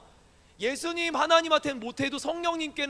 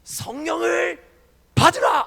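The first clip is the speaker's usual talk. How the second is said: loud, high preacher's command; mock revival shout, loud and high; 7 semitones higher, 9 dB louder, slower than usual. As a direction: bellow it at the congregation. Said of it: "누군가 이런 얘기를 합니다".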